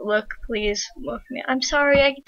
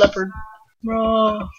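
deep-voiced leopard; much slower than usual. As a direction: pretend leopard with a roar. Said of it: "I'm a deep voice leopard".

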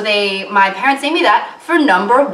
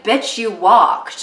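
deadpan; much slower than usual. Pretend. Deadpan retort to herself.

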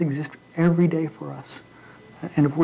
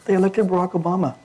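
mock panic; 5 semitones higher than usual. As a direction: play God in a mock panic. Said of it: "God's not in heaven going".

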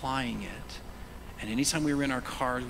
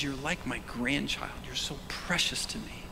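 tender; 4 dB quieter than usual. Acted. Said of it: "He says".

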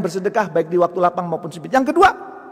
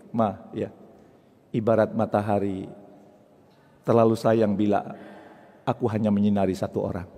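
sweet-talking husband; 6 semitones lower, 3 dB quieter than usual. Acted. Husband sweet-talking his wife.

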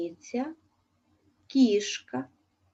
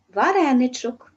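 vareny-chok said louder, stretched fondly; affectionate diminutive; 2 semitones higher, 6 dB louder than usual. Shown as a demonstration. Teacher to pupils, tenderly voicing the diminutive. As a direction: coo the diminutive like a pet name. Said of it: "із пестливо здрібнілим відтінком".

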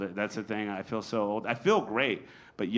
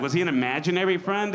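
laughing bewilderment; 6 semitones higher, 3 dB louder, faster than usual. Retold or imitated. Comic wondering about vanished friend.

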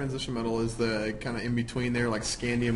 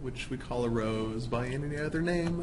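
soft, slow theatrical reading; Shakespearean recital; 6 dB quieter than usual. Pretend. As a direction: recite it like a stage actor. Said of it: "you're quoting Shakespeare".

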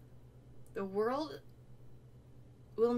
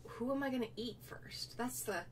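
whispering; 4 semitones higher, 6 dB quieter than usual. Real, not acted. Musing aloud which cookie to eat.

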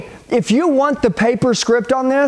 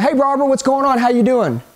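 put-on casual phone greeting to an old friend; easy, familiar cold-call opener; familiar, buddy-like greeting; faster than usual. Shown as a demonstration. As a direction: greet her like you already know her. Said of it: "somebody they have familiarity with".

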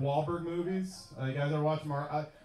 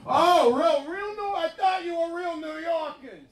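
high-pitched, hammed-up Italian-American accent; 11 semitones higher than usual. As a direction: wail it in a mock Italian accent. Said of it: "a breakdown in Italian accents".

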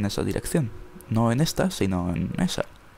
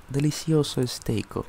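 slow, drawn-out, relishing; savoring voice; 4 semitones higher, slower than usual. Pretend. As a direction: taste it like a gourmet. Savoring cooked steak.

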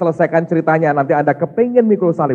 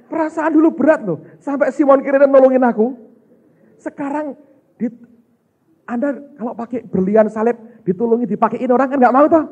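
much higher, louder mock voice of the sad statue; high voice of Jesus statue; 5 semitones higher, 3 dB louder than usual. Pastor voicing the sad statue of Jesus, high and loud. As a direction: ham up a grieving statue in a high voice. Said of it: "Dia ngomongnya gini nih".

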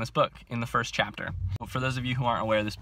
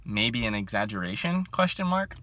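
mock doubt, pitch leaping up at the end; very sarcastic. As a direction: read it sarcastically, like a pointed query. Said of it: "This one says very sarcastically".

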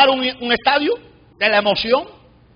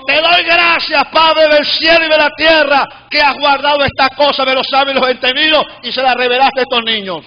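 fervent preaching; 3 semitones higher than usual. Acted. Preacher recounting praise to the congregation, fervent preaching. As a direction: proclaim scripture to the congregation.

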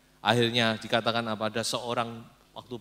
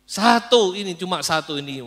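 grudging admission; 7 semitones higher, 11 dB louder than usual. Acted. Ahab grudgingly names Mika.

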